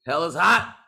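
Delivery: loud, high whiny ex; whiny ex impression. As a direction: whine it like an ex. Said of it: "My ex voice".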